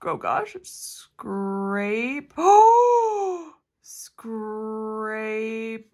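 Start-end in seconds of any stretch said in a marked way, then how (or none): 2.4-3.5 high, loud gasp into "oh". Real, not acted. Crafter gasping at the ombre colours.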